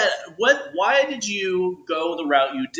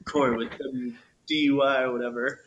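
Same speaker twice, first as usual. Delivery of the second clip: radio DJ voice; 3 semitones lower than usual. Retold or imitated. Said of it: "could you do it real quick?".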